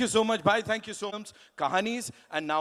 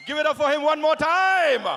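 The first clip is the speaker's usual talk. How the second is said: higher, louder, slow drawn-out call to the crowd; big hype shout; 8 semitones higher, 8 dB louder, much slower than usual. Real, not acted. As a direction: stretch it out and rally the whole hall. Host calls for applause again. (ज़ोर से खींचकर भीड़ को जोश दिलाना)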